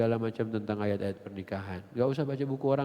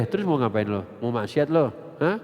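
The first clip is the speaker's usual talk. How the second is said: loud scolding, stabbing each question; father scolding his daughter about dating, loud scolding; 7 dB louder than usual. Acted.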